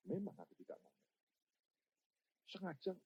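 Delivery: very soft, confiding retelling; quiet voice of God, gently imitated; hushed divine answer. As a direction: drop almost to a murmur. Retells God's quiet private answer.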